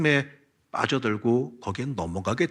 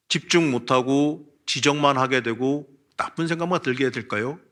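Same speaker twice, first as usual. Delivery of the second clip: higher, louder pleading complaint, lightly acted; a touch of a frustrated believer complaining to God; 4 semitones higher, 4 dB louder than usual. Woman pleading back to God.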